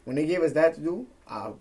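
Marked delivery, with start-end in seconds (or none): 1.3-1.5 soft breathy boast; whispering. Real, not acted. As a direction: whisper it like a secret. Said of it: "aced it".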